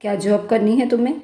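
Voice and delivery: quick, sharp mocking question rising at the end; fast angry jab at his wife's plan; angry retort. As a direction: fire it back fast and scornful. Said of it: "वह गुस्से के अंदाज में बोला".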